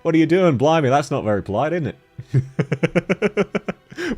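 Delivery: mock-offended in broad Australian; exaggerated Australian accent. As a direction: play up the Australian accent in protest. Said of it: "You're making fun of my Australian accent".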